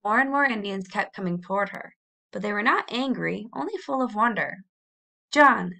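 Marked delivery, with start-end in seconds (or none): 5.3-5.7 a sudden loud call of the name, pitched up; calling John in a strange small voice; strange little voice. Acted. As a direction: cry out his name, then falter. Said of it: "in a strange little voice".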